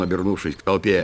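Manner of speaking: ordinary delivery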